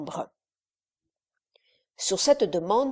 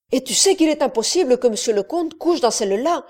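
cried out quickly, a bit louder and higher; sharp cry; 4 semitones higher, 5 dB louder than usual. Acted. Wife cutting in on her husband, crying out sharply. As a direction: cut in to stop her husband. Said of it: "s'écria vivement la femme".

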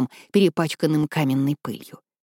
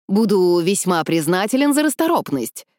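pompous. Acted. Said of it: "в своей высокопарной манере".

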